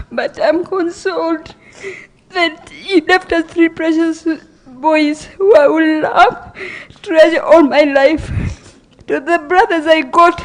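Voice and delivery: pushing through sobs to finish the thought; crying. Real, not acted. Sister speaking of her brother's boys at his funeral, crying. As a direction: voice rising and breaking into tears.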